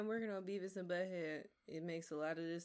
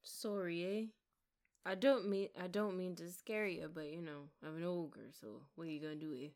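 mock Canadian Shrek. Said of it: "Shrek would have had a Canadian accent".

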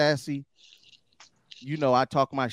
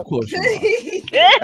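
mock sarcastic high voice; 4 dB louder, much slower than usual. Mocking remark to co-host.

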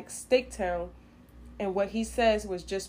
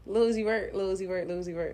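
repeated faster and faster; speeding up; faster than usual. Shown as a demonstration. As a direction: rattle the name off quicker each time. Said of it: "Say it faster".

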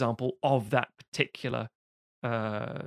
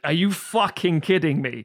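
slow, higher, louder mock disbelief; disbelieving teacher; 4 semitones higher, 4 dB louder than usual. Colleague reacting to his summer-school plan, slow incredulous. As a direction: drag out the outrage. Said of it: "It's like".

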